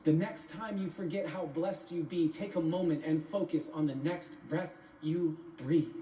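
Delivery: spaced-out ending, pausing around "you" before "breathe"; deliberate repeated verse. Acted.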